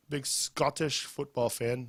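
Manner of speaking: lightly put-on Scottish accent, slow; half-successful attempt at a Scottish accent; terrible Scottish accent. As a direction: do a bad Scottish accent, drawn out. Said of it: "That was a terrible Scottish accent".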